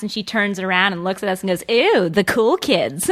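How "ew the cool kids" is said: drawn-out, mock-snide sneer; sarcastic imitation. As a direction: imitate a sarcastic put-down, slowly. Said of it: "I was not being sarcastic".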